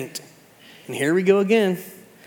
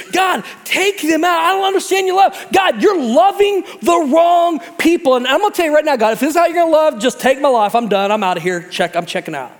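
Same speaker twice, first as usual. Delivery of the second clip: mock ranting Jonah; 9 semitones higher than usual. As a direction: rant like a sulking prophet. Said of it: "He's like".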